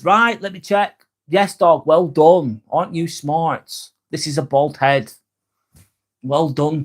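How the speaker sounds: teasing owner's singsong, lightly done; mock dog praise. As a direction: praise him like a good dog. Praising chatter named Dog like pet.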